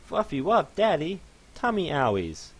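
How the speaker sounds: a sore pony asking daddy; confused fluffy pony. Acted.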